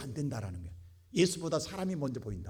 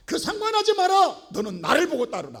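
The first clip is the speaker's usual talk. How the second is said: forceful command; 13 semitones higher, 13 dB louder than usual. Acted. Preacher voices Jesus' command.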